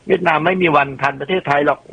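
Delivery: mock the doubters who dismiss Vietnam; scoffing skeptic. Imitating people who say Vietnam can never catch up, high scoffing voice. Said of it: "บางคนก็บอกว่า".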